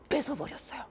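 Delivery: plain reading voice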